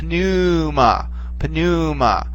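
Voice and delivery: "pneuma" with a slow, rolling stressed vowel; rolling circumflex. Shown as a demonstration. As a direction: draw out and roll the "neu" in "pneuma". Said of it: "more rolling sound to it".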